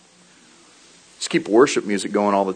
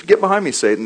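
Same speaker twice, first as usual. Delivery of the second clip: higher, louder stern command; firm rebuke; 9 semitones higher, 5 dB louder, faster than usual. Retold or imitated. Jesus rebukes Peter, raised and stern. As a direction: bark it like a rebuke.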